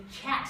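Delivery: "cat" with a puff of air after the k; aspirated k. Shown as a demonstration. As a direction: breathe out on the k of "cat". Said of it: "let's say there is aspiration".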